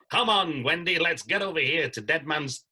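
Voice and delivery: loud, high rallying call; rally Wendy like a panto hero; stage pirate line. Acted. Panto actor rallying Wendy on stage, loud and excited. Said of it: "one school show went".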